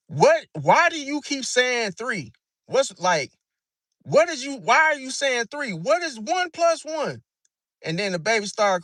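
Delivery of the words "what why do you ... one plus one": raised, slowed, baffled questions; exasperated questioning. Retold or imitated. Parent baffled by kid saying three, exasperated. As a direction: quiz the kid in disbelief. Pisces confused at kid's wrong answer.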